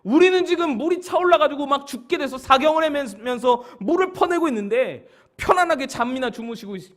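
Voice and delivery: high, loud, urgent complaint; angry disciples. Acted. Disciples bailing water confront sleeping Jesus, angry. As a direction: protest hotly at a sleeping master. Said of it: "예수님에게 화가 났어요".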